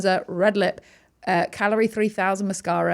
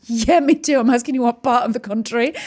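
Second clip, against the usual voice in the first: higher, louder retort; insistent reply; 4 semitones higher, 7 dB louder than usual. Retold or imitated. Telling a fellow Brit they're English too, insistent and loud. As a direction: push back, keen to be recognised. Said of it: "And I go".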